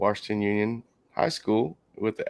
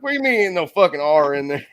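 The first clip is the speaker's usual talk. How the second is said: retold laughing protest; 4 semitones higher, 5 dB louder than usual. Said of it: "I was like".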